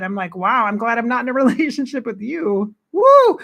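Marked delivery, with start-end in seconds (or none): 0.3-2.7 laughing through the words. Real, not acted. Mocking an imagined partner. 2.9-3.4 high loud whooping cry. Real, not acted. Laughing exclamation after joke.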